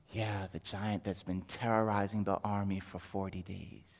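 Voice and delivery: low, hushed and awed; hushed awe. Acted. Child hearing Goliath's name, hushed awe. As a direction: drop low and soft in dread of the giant.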